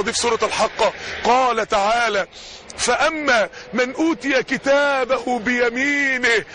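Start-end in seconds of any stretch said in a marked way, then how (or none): 2.8-6.4 slow, measured Quran recitation. Acted. Preacher reciting the verse to the crowd, slow and solemn. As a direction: draw out the verse with reverence.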